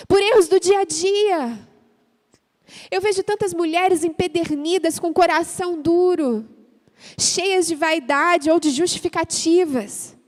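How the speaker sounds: pregação alta e intensa; pregação fervorosa. Acted. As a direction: clame com força diante da igreja. Prega e ora com força. (pregando às mulheres, alta e fervorosa)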